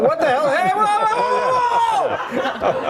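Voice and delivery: high, loud startled yelling; comic alarm climbing very high; mock panic. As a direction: yelp it out like a hammed-up panic. Acting out panic in his scenario.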